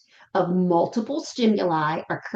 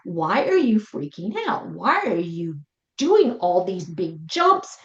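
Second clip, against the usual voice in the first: baffled sitter. Retold or imitated. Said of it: "And you're thinking".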